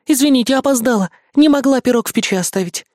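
high, quick breathless little vixen; fox girl voice. Acted. Fox cub bursting in at the door, high and breathless.

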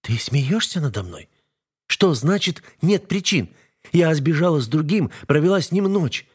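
wife begging husband to stop the fight; wife's voice, pleading. A narrator's reading. Wife lists her sins.

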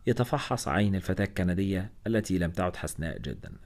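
ordinary delivery

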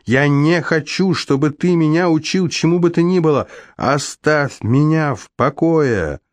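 high, rising angry tirade, slowing at the end; furious tirade. A narrator's reading. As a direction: hurl it at him, building to the last line. Luna's furious tirade at Alex. (высокая гневная тирада, к концу медленнее)

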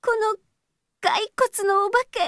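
tearful, pitch climbing high and shaky; scared plea. Real, not acted. Girl trapped by a haunted-house skeleton, frightened plea. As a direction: beg through fear. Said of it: "本当に怖かったんですから".

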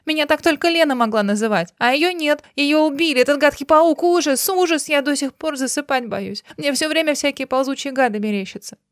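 a touch of weeping terror; tearful fear. A narrator's reading. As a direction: let the fear spill out. Dina tearful, frightened.

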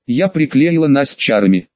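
ordinary delivery

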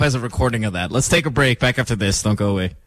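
ordinary talk, nothing marked

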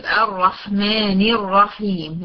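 slow الرحمن الرحيم with thick R; heavy doubled ra. Shown as a demonstration. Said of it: "ري شدة وفتحة يتفخم".

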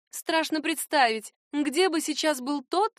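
slow, drawn-out wry remark; smirking. A narrator's reading. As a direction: hum it with a knowing smirk. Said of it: "хмыкнул Райера".

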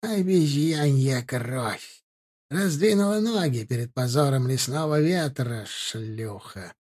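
slow, hissing demonic crone; old crone rasp. Acted. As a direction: spit the insult like a possessed hag. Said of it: "а какой-то старушечий голос".

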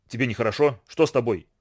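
usual speaking voice

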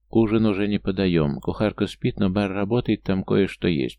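lightly voiced wet gurgle; a hint of a gurgle in the throat; gurgling voice. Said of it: "пробулькал он".

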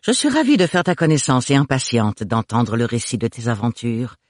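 lightly voiced cheerful gossip; a touch of self-important friendliness; jovial middle-aged busybody.

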